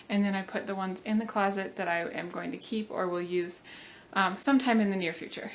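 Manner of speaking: breathless, catching air between words; out of breath. Real, not acted. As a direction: talk while winded. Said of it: "sorry, I'm really out of breath".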